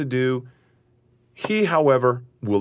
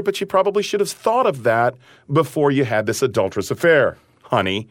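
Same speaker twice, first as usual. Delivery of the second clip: sarcastic; 2 semitones higher, faster than usual. Acted. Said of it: "I don't mean to be comical and sarcastic".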